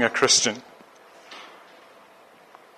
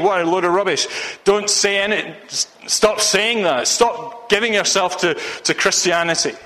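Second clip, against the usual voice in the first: scoffing friends; 4 semitones higher than usual. Retold or imitated. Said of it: "your friends and your family saying".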